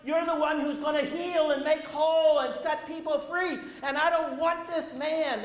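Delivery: a cornered spirit snarling back at Jesus; mock demon protesting; evil spirit. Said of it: "that's what the evil spirit's saying".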